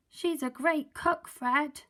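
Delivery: high cheeky bird voice; seagull voice. Acted. Seagull praising the cook, high cheeky voice. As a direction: squawk it gleefully.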